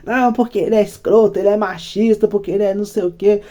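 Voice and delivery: mock accusing. Friend badmouthing him to the girls, mock indignant.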